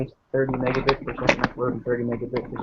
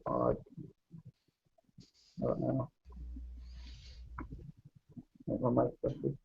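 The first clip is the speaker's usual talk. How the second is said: muffled, like through a blanket; bad mic, voice smothered; 12 dB quieter than usual. Real, not acted. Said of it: "underneath your blanket".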